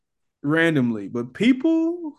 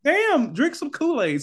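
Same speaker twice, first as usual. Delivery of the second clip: exasperated mock retort; 11 semitones higher than usual. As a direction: shoot the voice way up as if fed up. Acted retort to coffee snob.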